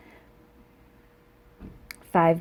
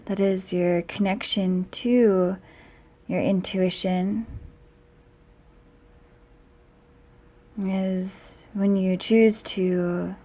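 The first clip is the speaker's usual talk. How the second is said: calm meditation guiding, with long pauses between phrases; guided meditation. Real, not acted. Yoga teacher leading students into seated meditation, calm and unhurried guiding voice. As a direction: lead them gently inward, lingering on key words.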